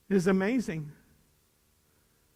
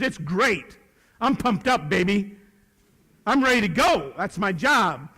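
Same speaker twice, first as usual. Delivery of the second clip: eager, louder pep answer; pumped up; 2 semitones higher, 4 dB louder than usual. Acted. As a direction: sound ready to go. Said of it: "How's your attitude today, Mister Kearns?".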